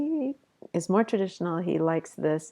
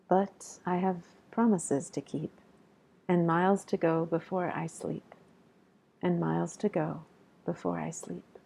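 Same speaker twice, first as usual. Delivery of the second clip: poem reading. Acted.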